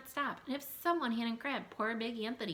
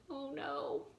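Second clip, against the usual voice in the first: higher, alarmed exclaim; excited alarm; 8 semitones higher than usual. Real, not acted. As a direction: exclaim it in mock panic. Storyteller alarmed by the picture.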